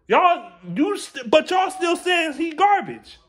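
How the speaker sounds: exasperated shout. Real, not acted. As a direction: voice jumps up, slow and yelling. Ranting at fans.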